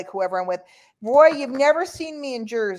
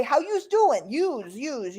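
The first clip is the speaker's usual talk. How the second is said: put-on Bronx accent; 4 semitones higher, slower than usual. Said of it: "if you're from the Bronx".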